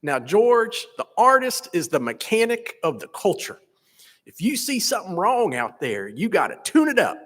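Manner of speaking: put-on slow it down into an old teacher's North Florida drawl. Quoting his professor to graduates, in a mild North Florida drawl. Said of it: "in his distinctive North Florida drawl".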